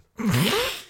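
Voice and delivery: amused high laugh; high-pitched laugh. Real, not acted. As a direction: laugh high at a silly mistake. Laughing at the semolina mistake.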